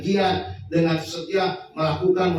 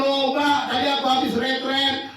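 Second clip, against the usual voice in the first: mock congregant; 5 semitones higher than usual. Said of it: "mimics a congregant after retreat".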